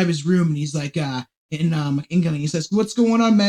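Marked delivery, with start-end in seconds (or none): 2.7-3.5 put-on higher-pitched amateur British accent; attempted British accent. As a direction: have a rough go at a British accent. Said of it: "trying to do my British accent".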